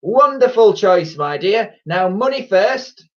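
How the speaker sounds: slow, high, sugary saleswoman; sweet, drawn-out high voice; nice voice. A narrator's reading. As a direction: flatter the customer with put-on niceness. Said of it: "in her nice voice".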